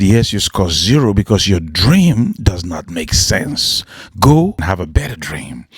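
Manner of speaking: lightly voiced teacher. Teacher dismisses the boy.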